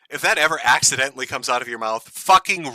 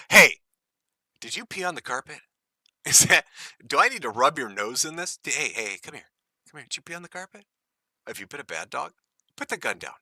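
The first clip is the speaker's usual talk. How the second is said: hushed, much softer mock scolding of a bad dog; 5 dB quieter than usual. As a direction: talk down to a puppy that peed on the carpet. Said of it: "sounds like he's trying to train a dog".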